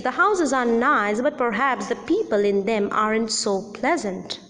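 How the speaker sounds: "houses are nice" with a fall-rise, then the hidden reservation; fall-rise with meaning. Shown as a demonstration. Teacher spelling out the fall-rise meaning. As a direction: dip and rise on "houses", then add the doubt. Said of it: "what I want to say is".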